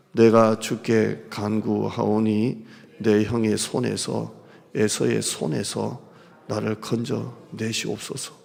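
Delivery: slow, low solemn reading; scripture reading. Acted. Pastor reading scripture aloud, slow and solemn. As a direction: read the verse slowly and gravely.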